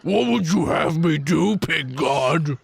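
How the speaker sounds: pig voice. Acted. Snowball speaks to the pig god.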